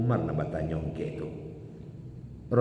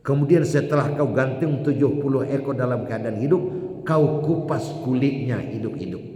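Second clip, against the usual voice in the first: louder, intense delivery; forceful preaching; 4 semitones higher, 4 dB louder than usual. Real, not acted. Preacher describing the goats' agony to the crowd, forceful. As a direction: drive the grim image home. Vivid grisly sermon climax.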